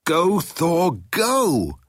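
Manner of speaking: high-pitched cheering shout; excited shout. A narrator's reading. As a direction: urge the hero on with a high cry. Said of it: "shouted Zaphod".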